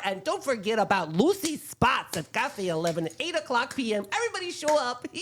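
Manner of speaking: chatty Midwestern mom reading listings; folksy Midwest accent, sing-song. Pretend. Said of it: "do it in my Midwestern mom voice".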